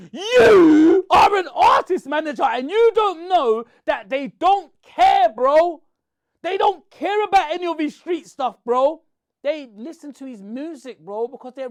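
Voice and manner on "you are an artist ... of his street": angry outburst. Real, not acted. Angry rant at the manager.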